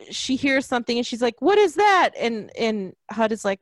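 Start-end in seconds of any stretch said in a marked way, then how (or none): 1.4-2.1 high, loud startled question; louder, higher mock alarm; retold alarmed question. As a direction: mimic a character's alarm, pitched way up. Acted alarmed question from film.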